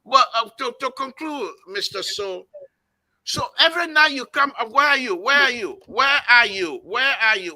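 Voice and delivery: phone in mouth, words muffled. Real, not acted. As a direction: talk round a phone in your mouth. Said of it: "let me put my phone in my mouth".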